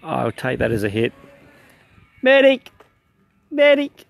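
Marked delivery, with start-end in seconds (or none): 2.2-2.7 shouting for a medic; man down shout. Real, not acted. Shot, calling for medic. 3.5-4.1 higher, louder medic call; man down shout. Real, not acted. Shot, calling for medic.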